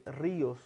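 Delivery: ríos with the first syllable RÍ stressed and held apart from os; ríos as two syllables, stress on the first. Shown as a demonstration. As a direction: hit RÍ in ríos, breaking it from os. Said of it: "alguna de las dos se encuentra acentuada".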